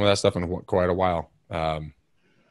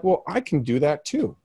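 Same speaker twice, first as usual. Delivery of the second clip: determined; 10 semitones higher than usual. Retold or imitated. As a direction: psych yourself up. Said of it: "So I'm like".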